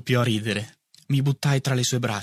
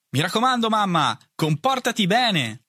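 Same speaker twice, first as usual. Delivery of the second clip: called out; 8 semitones higher than usual. A narrator's reading. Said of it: "gridò dall'alto".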